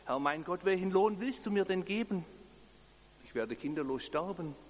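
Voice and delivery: anguished outcry to God; bursting out. Acted. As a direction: let the complaint burst out of him. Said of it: "Es bricht geradezu aus ihm heraus".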